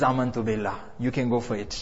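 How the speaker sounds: put-on low and soft, giving up the child; softly resigned mother facing the tyrant; quiet resolve. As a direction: say it low and hushed, steady. Mother defies Fir'aun, child threatened.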